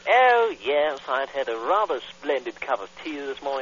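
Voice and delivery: a light hammed-up upper-class English accent; lightly voiced posh English accent; mock posh English. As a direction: play a fancy tea-drinking toff in a posh English accent. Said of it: "Posh, like".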